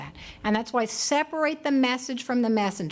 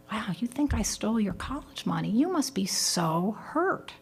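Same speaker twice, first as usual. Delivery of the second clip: put-on empathic to the child. Shown as a demonstration. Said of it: "show yourself to be different and say to your child".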